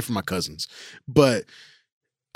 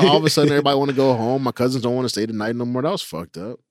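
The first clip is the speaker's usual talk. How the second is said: ordinary talk, nothing marked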